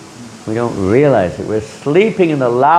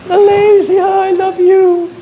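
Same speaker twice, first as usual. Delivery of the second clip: much higher, louder, slow, half-crying; hammed-up homesick swoon; mock tearful gush; 5 dB louder, slower than usual. Homesick expat gushing over his homeland, mock tearful and slow.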